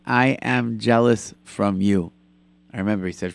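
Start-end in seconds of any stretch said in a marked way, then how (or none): 0.1-2.1 slow, deliberate retold confession; slow, earnest. Rabbi confessing to the singer, slow and earnest. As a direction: say each word slowly and deliberately. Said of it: "looked him straight in the eye and said".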